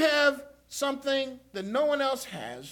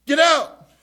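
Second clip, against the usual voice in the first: mock shout; 5 semitones higher, 11 dB louder than usual. Mock church member ejects a thief.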